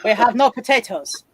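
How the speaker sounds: put-on slow, heavy Russian accent. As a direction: play a Russian stereotype. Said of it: "How good's your Russian accent".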